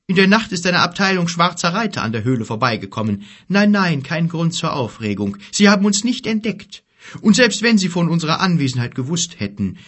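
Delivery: giant's voice. Acted. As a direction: play the worried giant. Gork's dialogue voiced higher.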